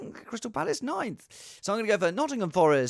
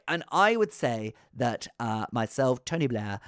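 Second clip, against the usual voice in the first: terrible Tony Blair; 4 semitones lower than usual. Pretend. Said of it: "this is a terrible impression".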